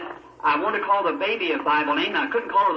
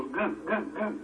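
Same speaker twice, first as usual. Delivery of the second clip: put-on baby babble; 8 dB quieter, slower than usual. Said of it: "she'd go".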